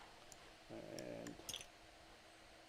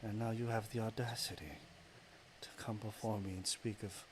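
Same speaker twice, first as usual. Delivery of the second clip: partly whispered menacing goddess; a dark deity sneering in a hush; 2 semitones lower, 3 dB quieter than usual. Acted. Goddess of darkness tells the hero he was always corrupt, hushed menace. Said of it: "I gotta do this voice again".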